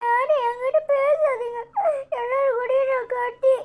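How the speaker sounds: acted crying sulk. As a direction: wail mildly that you are done with everyone. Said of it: "ஏடி, அழாதடி".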